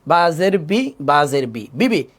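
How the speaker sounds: short vowels, no stretching; quick reading. Shown as a demonstration. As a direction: keep "বাজের বি" brisk and unstretched. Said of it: "কেন তাড়াতাড়ি পড়ব?".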